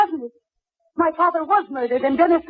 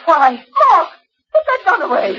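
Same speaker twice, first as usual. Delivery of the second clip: higher, alarmed plea; pitched-up panicked plea; frightened plea; 6 semitones higher than usual. Acted. Wife pleads at gunpoint.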